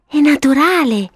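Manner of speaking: put-on unruffled, high child voice; matter-of-fact in a girlish voice; calm little girl. Violetta answering her amazed brother, calmly. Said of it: "commentò tranquilla Violetta".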